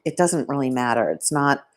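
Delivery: words pushed through a burp; speaking around a small burp; talking while burping. Real, not acted. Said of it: "sorry, I'm burping from the salad".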